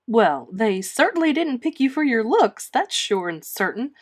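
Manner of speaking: mock-blunt neighbour passing judgement; emphatic. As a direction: state it flatly and hard. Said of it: "emphatic comment".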